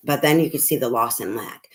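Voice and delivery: breathy whispered aside. Real, not acted. Mother whispering an aside about her daughter's mindset. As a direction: drop to a whisper, as if confiding.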